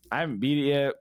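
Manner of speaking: usual speaking voice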